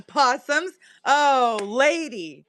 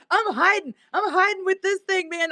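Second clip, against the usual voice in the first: 1 possum voice; 8 semitones higher than usual. Retold or imitated. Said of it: "and she's like".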